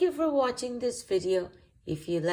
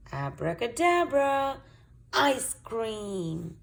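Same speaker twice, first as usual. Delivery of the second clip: spell; 3 semitones higher, slower than usual. Acted.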